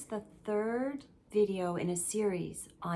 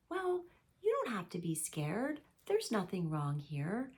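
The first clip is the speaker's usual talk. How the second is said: dismissive parent. Acted. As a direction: brush off a child's fear, mildly. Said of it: "they're actually being dismissive".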